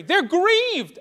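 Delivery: grieved cried out high and loud; ringing emphasis. Shown as a demonstration. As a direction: proclaim it to the room. Contrasting grief with anger.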